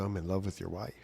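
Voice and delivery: whispered, breathless admission to the husband; hushed confession. Retold or imitated. The guy confesses to dad, whispering. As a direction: whisper it like a dangerous secret.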